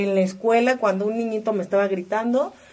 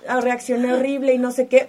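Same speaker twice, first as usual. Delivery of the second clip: higher, laughing imitation of someone regretting; laughing mock regret; 4 semitones higher, 5 dB louder than usual. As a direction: lightly mimic a person groaning over their outburst while laughing. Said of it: "ya le grité groserías y luego se siente horrible".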